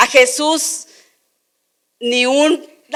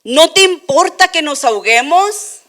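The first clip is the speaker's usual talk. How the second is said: higher and louder, a desperate plea; frightened shout; 5 semitones higher, 5 dB louder than usual. Retold or imitated. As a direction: beg him, scared of drowning.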